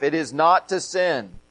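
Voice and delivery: not to sin weighted, the last half leaned on; not to sin said firmly as the point; stress on not to sin. Shown as a demonstration. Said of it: "the emphasis in that phrase is on the last half".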